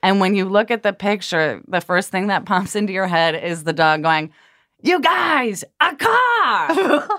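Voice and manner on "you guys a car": high, thrilled goofy dog voice squealing about the car; excited dog voice. Retold or imitated. Owner voicing the dog in the car photo, high and excited. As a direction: voice a grinning dog who can't believe it's a car. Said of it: "came the Frank voice".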